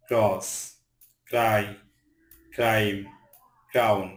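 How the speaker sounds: ক্র্যাক, ক্রাউন opened on a KR cluster. Shown as a demonstration. Teacher listing CR examples, ক্র্যাক and ক্রাউন said with KR. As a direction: recite ক্র্যাক, ক্রাউন singly with hard K before R. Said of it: "সি এর উচ্চারণ ক হয়".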